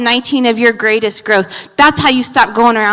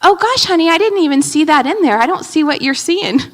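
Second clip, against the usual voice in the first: lightly voiced calm husband; a hint of the husband's gentle reply; mild husband voice; 5 semitones higher than usual. Husband answering his wife's vent, lightly voiced calm. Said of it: "the nerve was".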